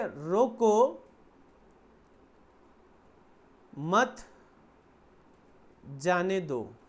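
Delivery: रोको... मत... जाने दो, each part isolated by a long pause; long pauses between words. Acted. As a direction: leave long gaps after रोको and after मत. Walkie-talkie message, deliberately ambiguous pauses. (रोको, मत और जाने दो के बीच लंबे विराम)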